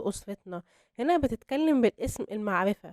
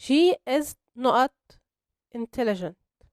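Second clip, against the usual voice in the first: slow exercise reading; much slower than usual. Shown as a demonstration. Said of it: "نرجع للإكسرسايز".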